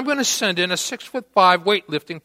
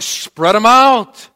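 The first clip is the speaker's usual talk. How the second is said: loud, drawn-out, higher-pitched command; shouting police order; 4 semitones higher, 8 dB louder, slower than usual. Retold or imitated. Little officer to two drunk guys, shouted command. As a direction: imitate an officer yelling an order. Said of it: "you know, shouting".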